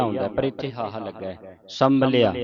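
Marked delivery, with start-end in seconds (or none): 1.7-2.3 ਸੰਭਲਿਆ with a weighty, held m; heavy pronunciation. Shown as a demonstration. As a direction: lean heavily into the middle of ਸੰਭਲਿਆ. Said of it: "ਭਾਰਾ ਬੋਲਣਾ ਇਹਨੂੰ".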